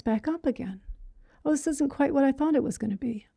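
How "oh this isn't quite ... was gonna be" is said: breathy unvoiced whisper of disappointment; soft private whisper of a letdown thought; whispered inner voice.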